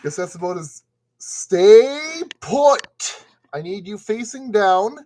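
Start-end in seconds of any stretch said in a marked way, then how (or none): 1.2-3.2 loud, higher-pitched order; aggressive command. Real, not acted. Scolding a thing that won't stay put, aggressive. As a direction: belt it out like a stern command. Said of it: "Getting a little bit too aggressive".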